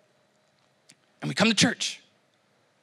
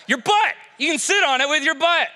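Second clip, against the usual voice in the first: high-pitched, comic announcement; raised pitch, playful exclaiming; mock-triumphant exclamation; 5 semitones higher than usual. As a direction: deliver the silly answer as a big reveal. Mock revelation shouted to congregation.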